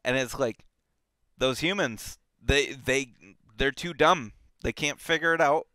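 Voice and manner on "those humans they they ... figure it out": louder, higher, scornful rant about humans; hammed-up disdain; mock exasperation. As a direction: act fed up with the dumb humans. Mocking the dumb humans' view.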